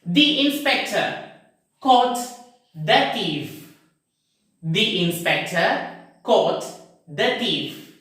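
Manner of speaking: first "The" as thee before "inspector", second "the" as thuh before "thief"; long ee only in "The inspector"; both forms of the. Shown as a demonstration. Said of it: "let me read the first sentence".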